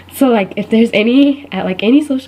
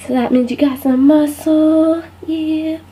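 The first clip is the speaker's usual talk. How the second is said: mock banter; 6 semitones higher, slower than usual. Mock banter with health freak.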